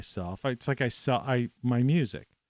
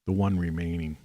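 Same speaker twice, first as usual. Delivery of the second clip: ice in mouth; 3 semitones lower than usual. Real, not acted. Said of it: "I got an ice cube in my mouth".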